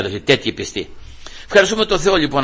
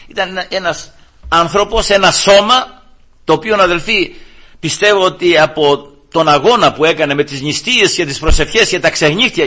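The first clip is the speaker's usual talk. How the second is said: raised, insistent sermon delivery; emphatic preaching; 4 semitones higher, 3 dB louder than usual. Real, not acted. Preacher describes Christ's body worn by fasting, emphatic preaching. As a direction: press the point home with force.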